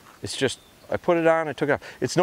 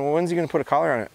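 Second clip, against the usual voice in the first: imitating viewers; 3 semitones higher, much faster than usual. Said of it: "some people are watching this series".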